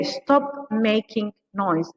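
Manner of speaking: very slow, spelled-out model phrase; very slow demo. Shown as a demonstration. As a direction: drag each word for learners. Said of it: "we say".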